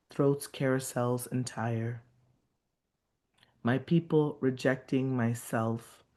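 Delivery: measured, rhythmic reading of a poem; a poet reading her own work to an audience; poetry reading. Acted. Poet reads her piece aloud.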